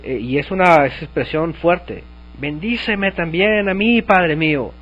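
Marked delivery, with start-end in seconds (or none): 2.4-4.7 a mildly bitter, rising demand on "mí"; Esaú reclaiming his father's blessing, mildly angry. Shown as a demonstration. Preacher voicing Esaú's bitter plea to his father, mock angry.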